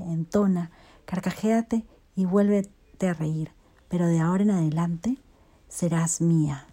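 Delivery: measured, even reading of a personal story; story narration. A narrator's reading. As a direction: reflective literary read-aloud. Reads an excerpt aloud.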